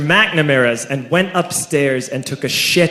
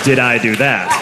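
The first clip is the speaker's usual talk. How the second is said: Steve Urkel; 6 semitones lower than usual. Retold or imitated. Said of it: "Steve Urkel can have".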